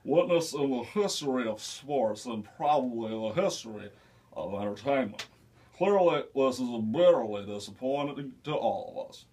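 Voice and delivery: Tom Brokaw impression. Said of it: "Tom Brokaw".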